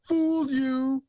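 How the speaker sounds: high, slow, loud taunt; sing-song slow gotcha; mock gotcha. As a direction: drag it out like a prankster revealing the joke. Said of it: "where he's like".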